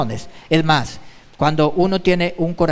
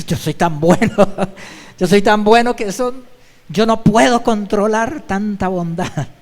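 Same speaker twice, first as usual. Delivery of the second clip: mock self-praise; 2 semitones higher, 3 dB louder than usual. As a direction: play someone too good for words, breaking into laughter. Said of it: "hay gente que piensa así".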